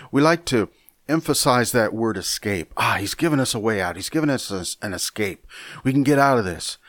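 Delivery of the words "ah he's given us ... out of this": relieved believer. Retold or imitated. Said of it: "we like to think".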